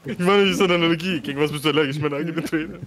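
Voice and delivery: mock crying joke. Joking about crying.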